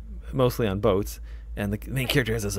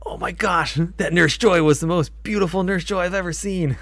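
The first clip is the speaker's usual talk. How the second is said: higher, swooning over a crush; Brock impression; 8 semitones higher, 4 dB louder than usual. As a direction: gush like a lovestruck anime sidekick. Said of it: "I love doing Brock".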